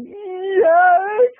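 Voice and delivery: high, tearful mock whimper; Marsha Brady. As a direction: answer as if just hit on the nose. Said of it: "like Marsha Brady when the football".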